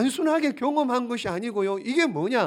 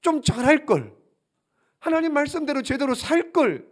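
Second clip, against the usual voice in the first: higher-pitched lament of regret; mock-rueful wishing, pitched up; voiced regret; 7 semitones higher than usual. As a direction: act out looking back with remorse. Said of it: "후회의 눈물이에요".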